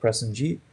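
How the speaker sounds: Prestonjeet with a rising tune; upward intonation. Shown as a demonstration. Teacher showing a rising tune on a name. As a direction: lift the pitch through Prestonjeet. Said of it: "you're gonna go up in, like, pitch".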